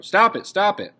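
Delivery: loud, high protest; exasperated outburst. Acted. Margot to the adults quarrelling over potatoes, exasperated shout. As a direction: shout to break up the squabble.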